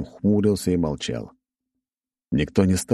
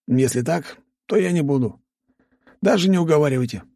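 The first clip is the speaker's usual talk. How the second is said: higher quick voice, flatly refusing; Nikolai refusing; 10 semitones higher than usual. Acted. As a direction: blurt it out fast, dead set against it.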